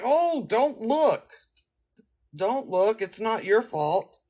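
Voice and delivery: high, slow put-on comforting; mock consoling dismay. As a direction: play the shocked friend soothing her, drawn out. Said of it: "So I'm like".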